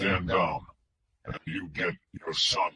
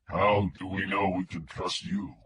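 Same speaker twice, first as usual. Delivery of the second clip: mechanical filtered voice; 2 semitones lower, 7 dB quieter than usual. A narrator's reading. Kidnapper on the phone to Wingo, mechanical filtered voice. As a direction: speak like a voice through a distortion filter. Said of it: "The filtered voice was mechanical".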